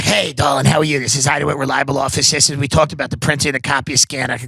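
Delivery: rapid-fire phone patter; Ida. Acted. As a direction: rattle off the sales greeting without a gap. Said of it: "Ida talked really fast".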